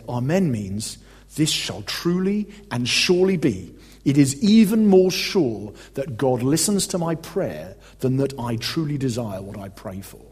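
slow, weighted recital of a catechism; measured reading aloud. Acted. Preacher quoting a catechism answer to listeners, measured reading. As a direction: read it out slowly, word by word.

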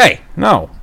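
high, mock-indignant telling-off; retold yelling. Man objects to old lady slapping him, retold high telling-off. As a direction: imitate a sharp high objection. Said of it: "I start yelling at this old lady".

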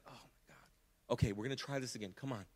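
breathy, exasperated "Oh my God", then a weary push; exasperated sigh. Pretend. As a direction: play a fed-up judge losing patience, almost no voice. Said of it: "authority figure that looks and says".

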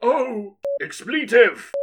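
sudden high, loud oath; shocked curse. Acted. Santa finds a man in the bag: loud shocked curse. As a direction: blurt it out in alarm. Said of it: "said Santa".

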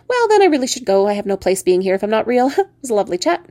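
theatrically offended frog voice; huffy talking frog. Acted. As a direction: announce a departure as a slighted frog. Frog huffily takes its leave.

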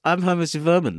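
Herman Zimmerman. Acted. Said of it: "Herman Zimmerman has something to say".

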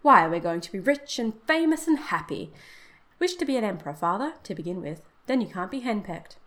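pretended horror. Son teasing his father about wishes, with mock horror. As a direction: exclaim in playful fake horror. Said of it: "said Herbert with pretended horror".

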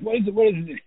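freaked out. Retold or imitated. Startled actor answering a pounding door, mock freaked out. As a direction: imitate someone flustered at the door. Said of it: "And he freaked out".

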